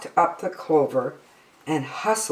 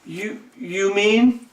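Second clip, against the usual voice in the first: gasping surprise; 5 semitones higher than usual. Acted. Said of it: "Horton gasped".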